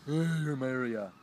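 loud mocking mom impression; hammed-up loud nagging mom; mimicking her mom. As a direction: call out as an interfering mother, caricatured. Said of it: "her mom would come out of nowhere".

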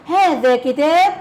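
هذا كتاب read slowly with هذا stressed; slow classroom example read. Shown as a demonstration. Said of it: "example read aloud".

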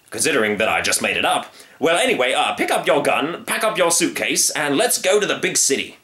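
high, eager sales pitch; excited circus showman. Acted. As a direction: sell it like a circus barker. Circus man voice.

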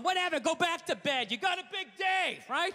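snipe at her with mock concern; sarcastic retort.

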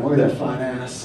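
mock-lusty woman's admiration; admiring leer. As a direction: drool it out admiringly. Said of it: "start being like".

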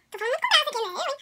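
aside. Real, not acted. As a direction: squeak out a side comment. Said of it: "points at her camera aside".

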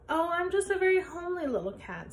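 a hint of a timid little cat; kitten voice. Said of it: "said the kitten".

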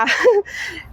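short laugh. Real, not acted. Farm owner chatting with a visiting host, short laugh. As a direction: let out a little laugh.

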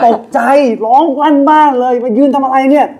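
high, loud startled cry; startled yell. Retold or imitated. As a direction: shriek it like you just woke from a nightmare.

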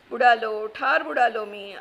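a loud pained cry, lightly acted; anguished wail. Old man lamenting his ruined papers, loud anguished wail. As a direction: moan in despair over his lost things. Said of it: "आबाराव कळवळले".

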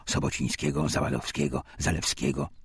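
ordinary talk, nothing marked

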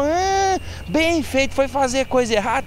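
high-pitched imitated old lady; old woman reacting. Owner hears the thief was attacked, scolding. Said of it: "Ela falou".

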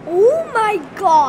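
slow, drawn-out oh my gosh on request; put-on excitement. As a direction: gush as if it's the best prize ever. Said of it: "I wanna hear excitement".

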